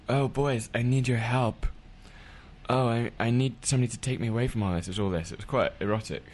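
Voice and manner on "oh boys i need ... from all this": mimicking her voice. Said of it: "I'll mimic very quickly".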